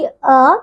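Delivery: short, quick अ; short vowel. Shown as a demonstration. Teacher giving pupils an example, short vowel अ. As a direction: say अ as one brief beat. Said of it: "इनके उच्चारण में सबसे कम समय लगता है".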